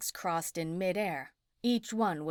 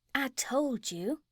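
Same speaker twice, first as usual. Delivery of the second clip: put-on sweet old lady voice; 6 semitones higher, slower than usual. A narrator's reading. Sweet witch confirms.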